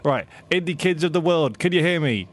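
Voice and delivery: loud rallying address to a crowd; announcing on a microphone. Acted. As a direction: call out to the crowd over a PA. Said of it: "on the microphone at the main stage".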